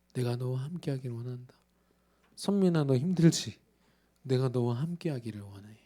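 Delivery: soft, gentle plea; tender voice of God. Acted. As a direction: speak like a loving father at the door.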